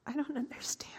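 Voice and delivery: stunned whisper. Acted. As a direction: breathe it out in shock. Stunned by news he is alive.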